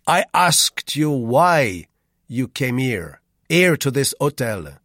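put-on loud, high, slow demanding French accent; Rue, suspicious Frenchman. A narrator's reading. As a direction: press the narrator impatiently for the truth. Voices Rue in story.

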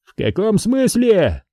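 high, drawn-out puzzlement; surprised question. A narrator's reading. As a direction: ask slowly, taken aback by the offer. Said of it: "удивился незнакомый мамлей". (протяжное удивление)

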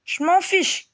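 put-on high-pitched child's angry cry; defiant shout. A narrator's reading. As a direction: fling it back as a defiant little boy. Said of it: "cria Teddy". (cri d'enfant rebelle)

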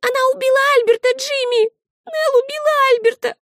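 put-on a sobbing child blurting it out; high girl's voice, fast and tearful; little girl through tears. A narrator's reading. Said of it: "сквозь слёзы выдавила Олив".

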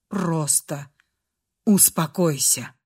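low, slightly hushed plea for calm; soothing. A narrator's reading. Man tries to calm trembling girl, soothing.

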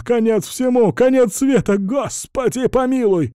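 very high, loud terrified wail; panicked screaming. A narrator's reading. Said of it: "заорал мент". (в панике кричит, очень высоко)

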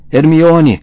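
loud, high bellow, repeated; desperate bellowing. A narrator's reading. Rony screaming for tortured Hermione, desperate bellowing. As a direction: bellow the name with all your force.

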